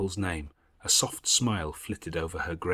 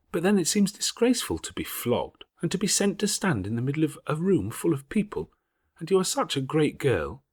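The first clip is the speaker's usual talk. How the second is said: put-on higher, louder girl's voice, indignant; a fierce schoolgirl who won't be cowed; young Jane, defiant; 9 semitones higher, 5 dB louder than usual. Jane to Helen by the fire, higher and indignant.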